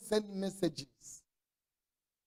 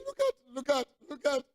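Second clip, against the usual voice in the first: high, loud, urgent "look at, look at"; pushing the find at him, pitched high; upset deaconess; 6 semitones higher, 5 dB louder than usual. Retold or imitated. Deaconess thrusts evidence at pastor, high and loud. Crying deaconess shows condom.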